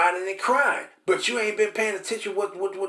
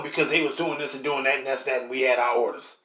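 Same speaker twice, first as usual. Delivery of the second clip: a lower, dismissive cop brushing it off; officer's excuse; 5 semitones lower than usual. Acted. Cop explaining a shooting to investigators, dismissive and low. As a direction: shrug it off like orders settle it.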